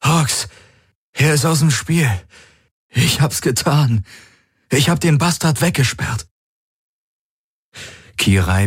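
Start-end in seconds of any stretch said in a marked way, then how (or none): 0.0-6.3 much higher, jubilant voice; high triumphant rush of words; elated exclaiming. Acted. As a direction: tell them the victory, overjoyed. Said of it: "rief er aus".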